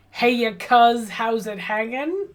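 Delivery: a hint of slow laid-back bro; slow dude voice. Player greets Tabitha in a slow, laid-back bro voice. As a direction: drawl it like a casual dude.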